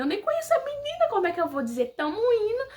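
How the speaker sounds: high, quick objection; playful flustered complaint; incredulous protest. Retold or imitated. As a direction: argue back fast with rising disbelief. Protesting to God, acted.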